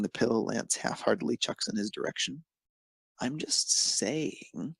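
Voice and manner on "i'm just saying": very slow, pointed drawl; pointedly. Acted. Hunk teasing Lance, slow and pointed. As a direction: lean on each word knowingly. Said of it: "he says pointedly".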